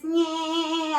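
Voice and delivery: a buzzy "nyeh" placed up in the sinuses; sinus resonance. Shown as a demonstration. Voice teacher demos the sinusy funny sound: buzzy "nyeh". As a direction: push "nyeh" forward into the nose and sinuses. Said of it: "that really sinusy, funny sound".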